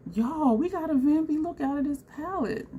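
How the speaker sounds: high-pitched, thrilled announcement; giddy and high; real excitement. Real, not acted. Thrilled announcement of new look found.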